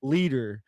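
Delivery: "cheerleader" split into cheer, then leader; two separate words. Shown as a demonstration. Explaining the old all male activity, "cheerleader" said as two words. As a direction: pause in the middle of "cheerleader". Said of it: "It was like two separate things".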